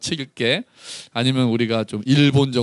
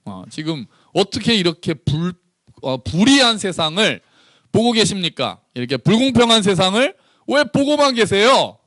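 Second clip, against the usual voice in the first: complaining prophet; 5 semitones higher than usual. Retold or imitated. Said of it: "불평하면서". (하나님께 따지는 불평 어조)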